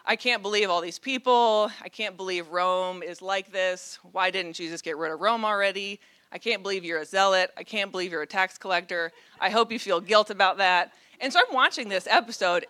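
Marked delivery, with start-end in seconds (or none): 0.0-10.9 mock-whiny complaining, loud at first; disciples whining. Disciples grumbling by the campfire about the crowds, mock whine. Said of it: "the disciples whining at the campfire".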